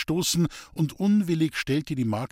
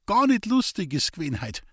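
lightly voiced sick old man, higher; a hint of a frail old Bavarian farmer; old farmer Hans-Peter; 8 semitones higher than usual. Old man in bed talking to Elisabeth, lightly voiced.

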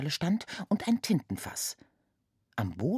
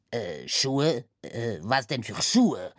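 snapping; 2 semitones lower, slower than usual. Acted. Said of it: "blaffte Dumanoir zurück".

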